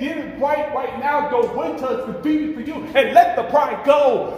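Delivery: a hint of urgent pleading; urgent divine call. God calling sinners to get it right, mild urgency. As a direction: press them to act now. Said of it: "he's saying".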